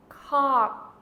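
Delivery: "cock" said loud, final k stopped at the back. Shown as a demonstration. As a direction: clip "cock" short from the throat. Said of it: "Second word would be".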